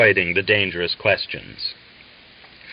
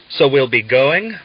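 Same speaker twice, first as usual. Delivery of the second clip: delighted; 4 semitones higher, 5 dB louder than usual. A narrator's reading. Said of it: "Valyat said in delight".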